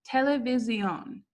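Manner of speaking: Televisión with stress on the last syllable, -see-OHN; Televisión: te-le-vi-SIÓN, final stress; Spanish televisión. Shown as a demonstration. Teacher modelling Spanish televisión. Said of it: "you just say it a little differently".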